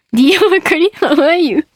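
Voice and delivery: schoolroom English with Japanese katakana vowels; beginner's Japanese-accented English. Acted. Host reading a comedian's letter, beginner Japanese-accented English. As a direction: read out English like a Japanese first-year pupil. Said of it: "中学一年生レベルの英語で".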